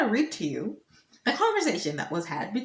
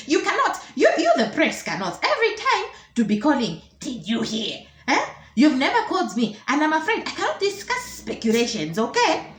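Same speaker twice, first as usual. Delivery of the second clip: put-on indignant old official, rising higher; ancient minister; 4 semitones higher than usual. Minister rebuffs the reporter, indignant acted ancient voice. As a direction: scold the caller like an affronted elder. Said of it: "says the dinosaur".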